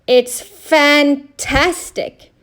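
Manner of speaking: Fred marvelling at the machine; amazed. A narrator's reading. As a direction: relish each syllable. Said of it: "said Fireman Fred".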